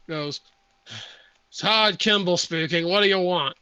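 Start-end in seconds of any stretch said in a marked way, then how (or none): 1.5-3.6 mildly irritated phone pickup; agitated man. Acted. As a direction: answer the phone with a touch of annoyance. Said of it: "agitated male voice".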